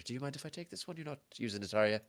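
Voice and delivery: put-on Irish-accented hostess, politely asking; Irish barmaid accent. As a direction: ask a small favour with an Irish lilt. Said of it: "I don't do Irish".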